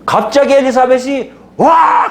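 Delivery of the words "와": high, loud cry of joy; preacher's acted joyful whoop; mock shout. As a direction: burst out with a glad cry. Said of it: "하고 소리 지르는 거예요".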